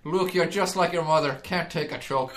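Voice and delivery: put-on joking Irish-accented villain; comic Irish accent impression; Irish Darth Vader. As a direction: needle him as an Irish Vader. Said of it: "could you imagine an Irish Darth Vader".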